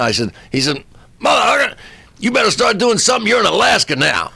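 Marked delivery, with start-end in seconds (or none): 1.2-4.3 high-pitched mock scolding; exasperated urging. Driver urging the comic to join in, exasperated urging. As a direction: retell an exasperated demand, pitched well up. Driver pushes drugs on him.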